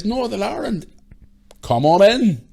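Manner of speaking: high, loud beckoning; big high-pitched mock welcome; imitated hearty welcome. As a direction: hail the visitors in, acting it out. Actor hails visitors in.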